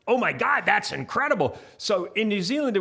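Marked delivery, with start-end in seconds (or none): 0.1-1.6 high, gushing amazement; mock amazement. Kiwi mocking how Americans gush over things. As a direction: gasp it out like you can't believe it. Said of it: "nobody in New Zealand dared to say".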